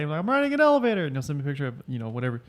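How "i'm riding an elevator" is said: much higher, sing-song answer; acted chit-chat. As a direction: mimic breezy banter up high. Acting out friend's texted answer.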